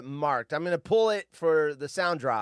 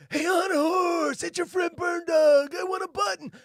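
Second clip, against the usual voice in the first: Burn Dog impression; 13 semitones higher, 4 dB louder than usual. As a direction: pitch it way up and drag it out. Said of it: "It's like, identical".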